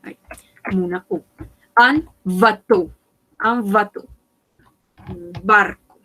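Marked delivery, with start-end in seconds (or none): 1.8-4.1 "bateau" ending in a pure O sound; eau as O. Shown as a demonstration. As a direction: show that "bateau" ends on a clean O. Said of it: "se va a pronunciar como una O".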